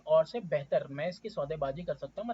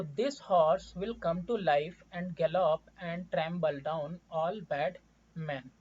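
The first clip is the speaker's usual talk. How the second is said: slow, deliberate reading of the text; slow story reading; 3 dB louder, much slower than usual. Acted. Teacher reading the story text to students, slowly. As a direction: read it out line by line for the class.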